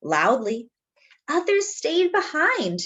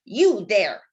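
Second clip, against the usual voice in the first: a touch of a growling mayor; mild growl; 3 dB louder than usual. Acted. Cranky mayor to rooster, a hint of a growl. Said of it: "growls Don Pepe".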